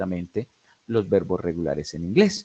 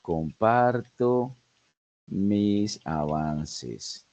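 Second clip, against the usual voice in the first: slow dictation; much slower than usual. Shown as a demonstration. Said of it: "va a decir".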